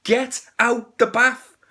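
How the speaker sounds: exasperated. Retold or imitated. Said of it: "And you're like".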